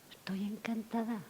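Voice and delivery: whispered, slow and breathy with joy; delighted whisper. Real, not acted. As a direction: hug the words in a whisper. (susurro encantado)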